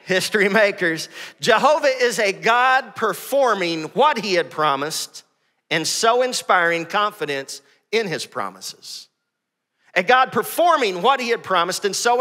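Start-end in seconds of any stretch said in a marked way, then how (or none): 1.4-9.1 slow dictation. Shown as a demonstration. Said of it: "Matthew Henry defines Jehovah this way".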